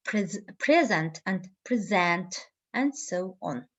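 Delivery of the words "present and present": "present and present", first PREsent, then preSENT; shifting stress. Shown as a demonstration. Teacher gives example of stress interchange, "present" stressed PRE then SENT. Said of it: "Stress interchange".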